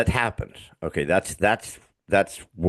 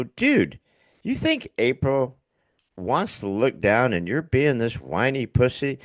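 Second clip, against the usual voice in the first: higher-pitched buddy calling him out; mock friend scolding; 6 semitones higher than usual. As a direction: rib a grieving friend, half-joking. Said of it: "they'd go".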